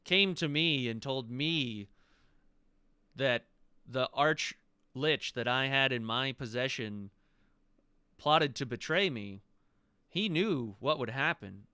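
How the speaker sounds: lightly voiced dragon, grave accusation; deliberate, emphatic dragon pronouncement; voiced emerald dragon. Dragon tells the visitors he crushed the phylactery, measured menace.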